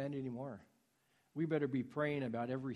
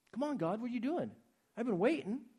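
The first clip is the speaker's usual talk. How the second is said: mock impatient prayer; 7 semitones higher, 3 dB louder than usual. Mocking impatient prayer to God.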